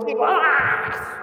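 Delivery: high drawn-out golaço cry; explosive goal commentary. Acted.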